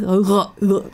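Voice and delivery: เออ เอ scraped in the back of the throat; เออ เอ as if hawking up phlegm; phlegm-clearing R. Shown as a demonstration. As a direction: imitate a guttural French R on เออ เอ. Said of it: "คล้ายๆกับเราจะขากเสลด".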